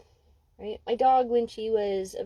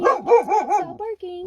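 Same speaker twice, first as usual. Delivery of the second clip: slow, drawn-out firm command; 8 semitones higher, 8 dB louder than usual. Shown as a demonstration. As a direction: stretch each word to make her stop. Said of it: "See the difference?".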